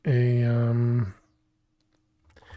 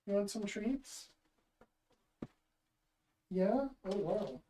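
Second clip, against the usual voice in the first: pet talk; 7 semitones higher, 8 dB quieter than usual. Real, not acted. Talking sweetly to the cat.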